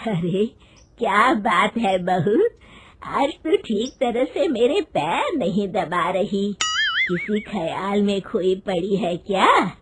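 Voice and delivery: lightly voiced nosy mother-in-law, slow; a hint of an old mother-in-law prying gently. Mother-in-law coaxing her daughter-in-law to speak, lightly voiced.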